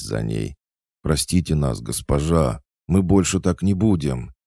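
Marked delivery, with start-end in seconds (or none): 1.0-4.3 high, urgent begging, rising in loudness; pleading apology. A narrator's reading. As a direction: beg forgiveness, calling after her. Pupils beg the fleeing coach.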